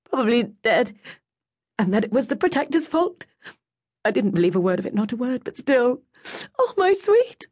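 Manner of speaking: high, loud, tearful voice that breaks; voice breaking. A narrator's reading. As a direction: fight back the tears. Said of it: "her voice broke".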